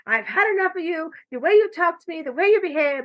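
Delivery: finally snapping back at the uncle, high and sharp; fed-up outburst. Retold or imitated.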